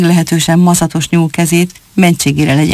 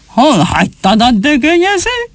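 teeth-gritting anger; 8 semitones higher than usual. Acted. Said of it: "Rödfülű a fogát csikorgatta".

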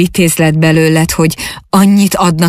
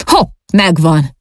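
whoop. A narrator's reading. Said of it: "Végre egy nagyot kurjantott".

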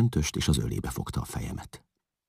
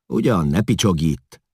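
a louder, higher scolding tone; 4 semitones higher, 7 dB louder than usual. A narrator's reading. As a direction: tell the weeping girl off. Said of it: "szólt rá a táltos".

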